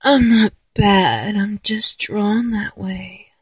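slow, breathy sultry whisper; Jessica Rabbit seductive voice. Retold or imitated. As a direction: purr it like a cartoon bombshell. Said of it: "I talk in my seductive voice".

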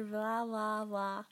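flubbed-line blah. Real, not acted. Voice actor abandoning a botched take, exasperated babble. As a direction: give up on the line in nonsense syllables.

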